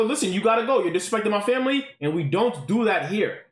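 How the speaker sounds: put-on a light African accent on the warning; stern, lightly accented telling-off. A man telling a rude guest off in a light African accent. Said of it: "my African accent came out".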